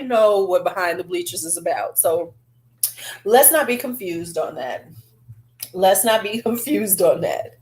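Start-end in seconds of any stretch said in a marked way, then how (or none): 5.7-7.6 breaking into a laugh mid-line. Real, not acted. Vlogger laughing at the cheeky lipstick name. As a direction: let the laugh slip through the words.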